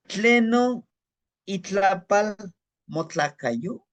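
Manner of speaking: "Tlenon itlapal motlacayo" high and loud at the start, slowing toward the end; slow Nahuatl demo. Shown as a demonstration. Teacher modeling "Tlenon itlapal motlacayo" for students. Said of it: "teaching Nahuatl phrase".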